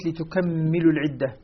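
"لتكملوا" as litukammilu, doubled m; doubled mim. Shown as a demonstration. Teacher quotes Ya'qub's reading, "لتكملوا" with doubled m. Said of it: "يقرأ بتشديد الميم".

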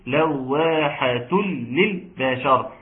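slow, drawn-out recitation; Quran recitation. Shown as a demonstration. Teacher recalls an earlier example, slow tajweed recitation. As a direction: recite with measured long syllables.

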